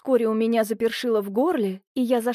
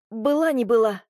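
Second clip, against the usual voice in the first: ordinary delivery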